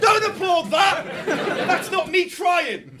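spraying spit on the consonants; spitting words. Real, not acted. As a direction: talk so the spit flies. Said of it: "Sorry, I spat on you".

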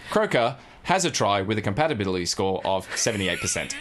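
machine-like announcer with a laugh; computer voice. Retold or imitated. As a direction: read it like a dating-show computer. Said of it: "we need to sound like a computer".

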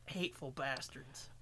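slow hissed whisper. Acted. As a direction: whisper it slowly. Mock quarrel in whispers.

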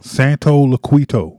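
slow, careful "Santo Laquito", stress on SAN, ending -toe; careful repeat of the name. Shown as a demonstration. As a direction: repeat "Santo Laquito" slowly after him, like a student. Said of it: "I've been struggling with that all week".

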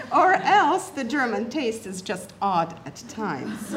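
slow, amused reading broken by laughter; laughing through the quote. Real, not acted. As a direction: read it while a laugh breaks through. Laughing while reading her quote.

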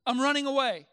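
acted-out shout of a runaway boy; retold boy's shout. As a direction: announce it loudly like a kid storming off. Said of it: "he shouts to his dad".

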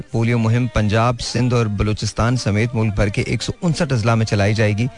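public service announcement. Acted. Host reads polio announcement.

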